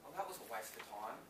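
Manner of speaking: rueful retiree. Retold or imitated. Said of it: "looking at retirement going".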